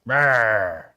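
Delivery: grumpy little growl; mock growl. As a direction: growl it like a cranky bear. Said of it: "Like, frustrated".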